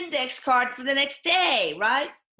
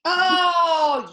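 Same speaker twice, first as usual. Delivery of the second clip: surprised oh; 8 semitones higher, 10 dB louder than usual. Real, not acted. Realising the backlog.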